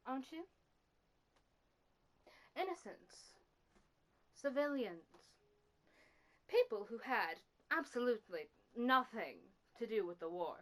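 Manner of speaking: low, soft, deliberate reproach; cold accusation. Acted. Confronting someone over innocents lost, quiet cold accusation. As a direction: accuse quietly, pausing between phrases.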